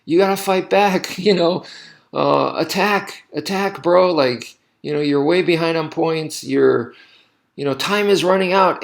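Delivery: urgent coach barking from the corner, replayed; retold coach yelling. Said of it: "he was yelling at me going".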